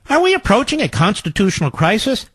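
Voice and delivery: mock-reading it as a question; lifted questioning tune on "Are we approaching a constitutional crisis?"; question intonation. Shown as a demonstration. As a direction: ask it with the voice rising through "crisis". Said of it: "Add the question mark so the voice goes up".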